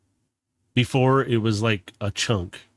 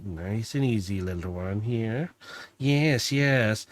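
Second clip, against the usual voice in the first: mad scientist; 4 dB quieter, slower than usual. Acted. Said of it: "starts to sound like a little mad scientist".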